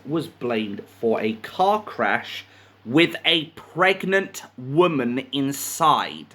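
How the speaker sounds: deliberate news-reading delivery; reading a printed story aloud; article read-aloud. A narrator's reading.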